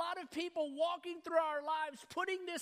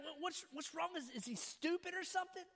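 softer, mocking aside under the breath; imitated muttered jeer; 2 semitones higher, 6 dB quieter than usual. Students talking about a struggling reader, muttered mockery. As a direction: imitate kids sneering quietly to each other. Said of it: "laugh under their breath a little bit".

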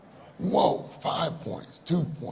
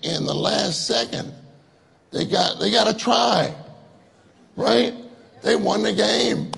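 excitedly retelling news; 4 semitones higher than usual. Retold or imitated. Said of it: "So I talk to you brothers".

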